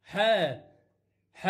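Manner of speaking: ح repeated alone as "haa", with long gaps; spaced-out demonstration of ح; letter sound ha. Shown as a demonstration. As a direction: sound out ح as an isolated open syllable. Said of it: "لفظه ح".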